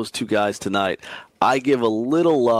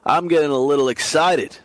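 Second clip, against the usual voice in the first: a little excited; 5 semitones higher, 4 dB louder than usual. Real, not acted. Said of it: "I get a little fired up".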